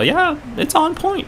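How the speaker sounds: playful Korean-accented English. Shown as a demonstration. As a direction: show off the Korean accent impression. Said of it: "I can impersonate Korean accents pretty well".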